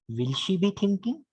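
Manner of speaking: "Will" marked as the question word; stress on WILL. Shown as a demonstration. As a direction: question led by a stressed "Will", rising at the end. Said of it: "we have to stress the first word".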